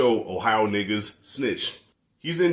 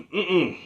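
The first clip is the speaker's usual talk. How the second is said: raspy throat grunt; 6 semitones higher than usual. Shown as a demonstration. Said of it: "it hurts my throat even doing it".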